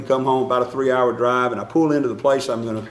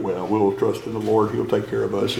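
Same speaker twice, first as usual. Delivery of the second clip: calm reassurance; 3 semitones lower, 3 dB quieter than usual. Retold or imitated. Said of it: "you come up to me and say".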